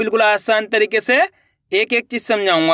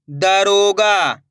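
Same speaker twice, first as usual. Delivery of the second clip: word stretched out very slowly; slow reading demo; much slower than usual. Shown as a demonstration. Teacher showing pupils, very slowly sounding it out. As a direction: draw the word out for beginners. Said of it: "अब आगे देखिए".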